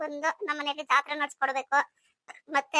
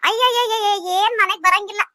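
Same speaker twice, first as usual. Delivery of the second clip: higher, louder exasperated outburst; exasperated retort; 4 semitones higher, 5 dB louder than usual. Acted. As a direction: protest at being shouted for. Scolded back for shouting on arrival. (ಬೇಸರದಿಂದ ಗದರುವ ಧ್ವನಿ)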